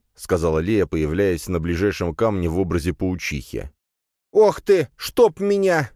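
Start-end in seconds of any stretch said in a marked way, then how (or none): 4.3-5.9 high, loud startled exclamation; boy yelps in fright; startled cry. Acted. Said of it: "испуганно уставился". (испуганный громкий вскрик)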